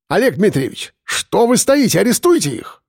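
high, shrill outraged cry; pompous man shrieking for an arrest; outraged demand. Acted. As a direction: squeal at the police to arrest them.

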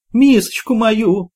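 high, slow, worried squeal; anxious squeal. A narrator's reading. Old Grusha squealing as her plate slides away. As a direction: squeal in alarm for your bowl. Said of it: "беспокойно заверещала Груша".

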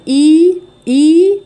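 loud, high, held إي; مد طبيعي. Shown as a demonstration. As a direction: sustain a rising long ee on إي. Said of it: "ده مد طبيعي". (إي ممدودة بصوت مرتفع)

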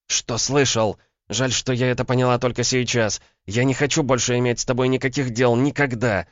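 high female voice full of scorn; contemptuous. A narrator's reading. Woman breaking off with man for good, contemptuous. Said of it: "презрительно процедила Ванда".

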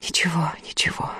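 soft murmur, fading to a whisper. A narrator's reading. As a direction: murmur it gently under your breath. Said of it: "пробормотала Устинья".

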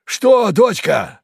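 high, slow, loud drawn-out reply; eerie cheerful old man. A narrator's reading. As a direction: answer with unsettling glee. Kharlov answers daughter, strangely gleeful.

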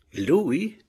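indignant question, pitched high and loud; high, loud flare of indignation; quiver of anger. A narrator's reading. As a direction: spit back a startled, angry question. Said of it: "fece subito con un fremito d'ira".

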